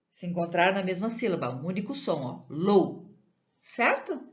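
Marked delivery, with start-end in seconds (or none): none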